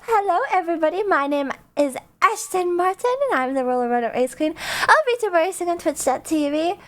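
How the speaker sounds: bright practiced channel intro; streamer intro. Acted. VTuber opening her stream to viewers, announcer style. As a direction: announce yourself like the show opener.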